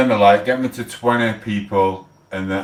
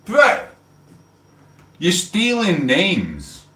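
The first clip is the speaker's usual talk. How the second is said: outraged rant; 8 semitones higher than usual. Real, not acted. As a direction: shout the disbelief out. Outraged rant about name stealing.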